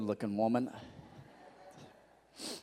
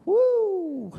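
cheering whoop; 8 dB louder than usual. Real, not acted. Cheering at sixty-nine children.

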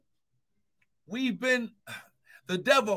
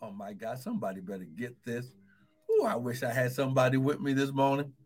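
much softer, rushed under the breath; hushed aside; 10 semitones lower, 7 dB quieter, faster than usual. Real, not acted. Pastor murmuring to himself to the congregation, hushed rush. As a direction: drop it to a quick hushed aside.

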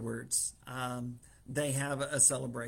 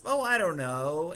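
feigned modesty; 3 semitones higher, 6 dB louder than usual. Acted. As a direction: play innocent, as if you hadn't thought about it. Haman feigns modesty to the king.

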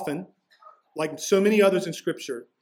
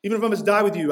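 raised pitch, emphatic repeat of the vow; insistent Peter; 4 semitones higher, 4 dB louder, faster than usual. Retold or imitated. Disciple vowing loyalty to Jesus, insistent. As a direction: press the promise with some heat. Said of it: "I'm gonna turn the temperature up".

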